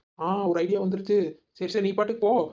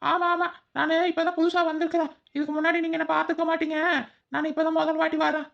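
disguised voice; 10 semitones higher than usual. Acted. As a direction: pitch way up to hide your voice. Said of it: "அந்த குரல் எங்கோ கேட்ட மாதிரியா".

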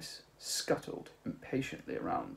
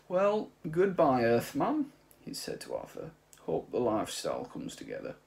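put-on old man's farewell; 4 semitones higher, 6 dB louder than usual. Old man bidding farewell to Arthur, high and louder. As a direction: say goodbye with a wry sadness.

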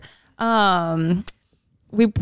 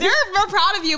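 put-on teasing voice; 10 semitones higher than usual. Mock reply in put-on voice.

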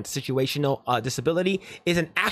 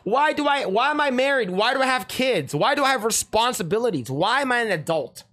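higher-pitched mock whining, settling as it goes; mock exasperated lament; 6 semitones higher than usual. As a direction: wail it like a hammed-up complaint. Acting out a complaint he never made.

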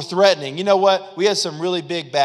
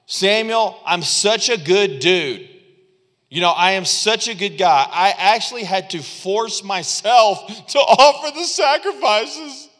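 mock smug Saul; 4 semitones higher than usual. Saul bragging to Samuel, hammed-up smugness. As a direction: play the self-satisfied good guy.

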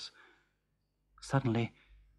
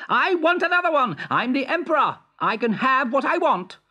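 high, petulant royal voice, demanding; a vain emperor whining for clothes; spoiled emperor; 12 semitones higher, 4 dB louder than usual. Acted. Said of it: "said the Emperor".

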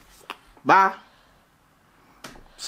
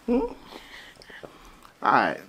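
whispered; 4 semitones lower, 6 dB quieter, much slower than usual. Real, not acted. Dad gives up shooting.

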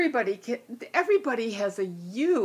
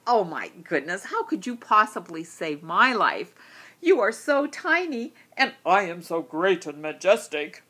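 proud lion; 5 dB louder than usual. Acted. Proud lion mocks tiny bee.

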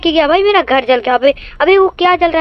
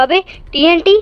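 panicked shout; 5 semitones higher than usual. Real, not acted. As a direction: scream it while running from TNT. TNT placed, player panics.

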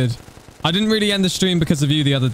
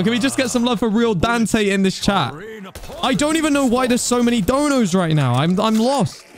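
excited; 6 semitones higher than usual. Real, not acted. Overwhelmed by donations.

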